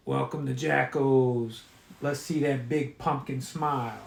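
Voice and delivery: scratchy mechanical repeating voice; broken record mascot voice. Acted. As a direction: play it like a worn-out tape. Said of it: "like a broken record".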